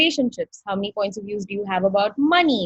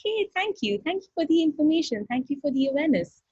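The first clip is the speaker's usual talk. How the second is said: grateful to body; 6 semitones higher than usual. Shown as a demonstration. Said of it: "Touch your body and go like".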